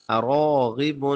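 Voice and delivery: اراغب with a full, thick ra; heavy ra in اراغب. Shown as a demonstration. Quran teacher models thick letters for learners, heavy ra in اراغب. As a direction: sound اراغب with ra and ghain heavy. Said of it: "را موٹا".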